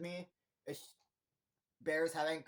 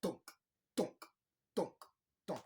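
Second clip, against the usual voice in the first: short, evenly spaced thunks with pauses; imitated thuds; 2 semitones higher than usual. Imitating a head bashed on the steering wheel, thudding. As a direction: mimic repeated dull impacts. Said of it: "You hear thunk".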